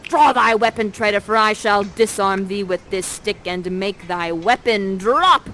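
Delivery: mock heroic sword-fight cry; loud battle challenge. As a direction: bellow at the traitor like a stage swordsman. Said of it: "they're battling it out".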